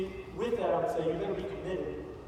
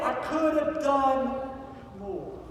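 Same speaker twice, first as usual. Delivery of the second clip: anguished outcry; 6 semitones higher, much slower than usual. A narrator's reading. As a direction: cry it out in despair, then drop away. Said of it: "Schindler begins to weep".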